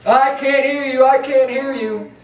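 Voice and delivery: put-on high, sing-song taunting child; mock a little child covering their ears; childish taunt. Preacher mocking people who behave like children. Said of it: "like little children".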